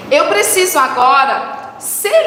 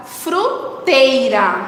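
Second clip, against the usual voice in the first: slow, careful word reading; much slower than usual. Shown as a demonstration. Teacher reading out target word slowly.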